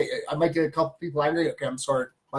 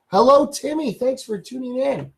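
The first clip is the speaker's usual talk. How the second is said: greeting viewer; 7 semitones higher than usual. Real, not acted.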